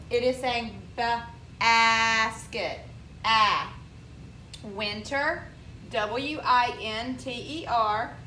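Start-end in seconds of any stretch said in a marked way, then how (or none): 0.1-2.8 basket said slowly, short A. Shown as a demonstration. Teacher modelling the short A, slowly. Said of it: "The A in basket is short". 3.2-3.7 ah, punched out loud as short A; short A sound. Shown as a demonstration. Teacher isolating the vowel in basket, short A. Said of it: "The A in basket is short".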